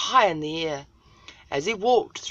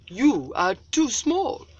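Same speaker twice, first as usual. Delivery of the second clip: slow, higher scoffing braves; mocking braves; 7 semitones higher, 5 dB louder, slower than usual. Other braves scoff at Little Cloud, slow and higher. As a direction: scoff down at him slowly.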